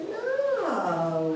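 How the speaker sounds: drawn-out nasal refusal; very nasal drawl. A narrator's reading. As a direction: drawl it lazily through your nose. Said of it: "with a very nasal drawl".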